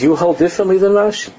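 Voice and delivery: high, incredulous mimic of the rabbi; imitating a high voice. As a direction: echo the rabbi's high-pitched disbelief. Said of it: "this is the way he had a very high voice".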